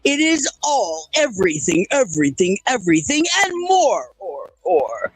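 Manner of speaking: lurid grindhouse trailer growl; movie narrator voice. Pretend. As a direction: epic announcer over intro music. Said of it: "is movie narrator voice".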